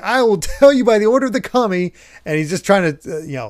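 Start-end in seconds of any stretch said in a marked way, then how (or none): 0.0-1.9 mock pompous warrior. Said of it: "he's like".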